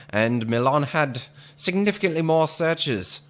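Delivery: 1940s radio announcer voice; lightly voiced old-time announcer; old radio serial. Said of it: "This is really what I would just call my radio announcer voice".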